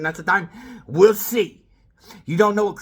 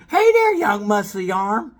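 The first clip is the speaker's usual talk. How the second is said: Stewie; 5 semitones higher, 5 dB louder, slower than usual. Retold or imitated. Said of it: "Little Stewie's making fun of me".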